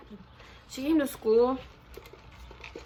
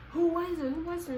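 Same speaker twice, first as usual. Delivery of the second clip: higher-pitched, repeated nosy question; eager questioning; 7 semitones higher than usual. Retold or imitated. Cop asking who she fought, mock eagerness. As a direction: imitate someone pressing for gossip.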